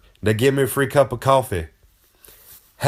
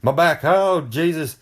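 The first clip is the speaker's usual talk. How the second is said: a quick higher fake cry of pain; mock screaming; 5 semitones higher, slower than usual. Shown as a demonstration. Showing the audience the gas station trick, a quick mock yelp. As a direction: toss off a sample yelp about a bad back. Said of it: "start screaming".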